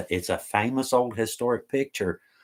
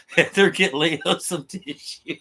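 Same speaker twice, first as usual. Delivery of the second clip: laughing; 6 semitones higher than usual. Real, not acted. Laughing fit on a livestream.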